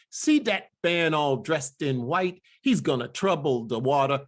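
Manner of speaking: "that" as "dat", "water" as "watah"; spiritual dialect. Shown as a demonstration. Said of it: "all of that dialect".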